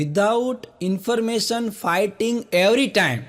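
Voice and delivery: very slow, word by word with laughter; spelled-out acronym. Shown as a demonstration. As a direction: read each word of the acronym deliberately. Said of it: "એના એક એક શબ્દનો અર્થ કાઢો". (હસતાં હસતાં ધીમે, એક એક શબ્દ)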